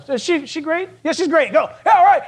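high-pitched, doubt turning into cheering; acted mob hype. Preacher plays mob members convincing one another, hyped-up.

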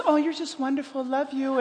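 soft, gushing pretend compliment; mock-sweet affection. Phone never says kind things, mock-sweet voice. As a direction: coo it softly, exaggerating the fondness. Phone's imagined loving words, contrasted.

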